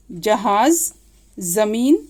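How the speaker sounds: जहाज ending in z, जमीन starting with z; dotted z. Shown as a demonstration. Teacher gives examples of dotted letter, clear z sound. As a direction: buzz the z in "jahaaz" and "zameen". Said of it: "ज के नीचे अगर बिंदी लग गई".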